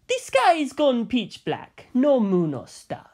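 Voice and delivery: remembered phone call, slow and serious; Bucciolati's urgent report. Retold or imitated. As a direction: report the dark sky gravely.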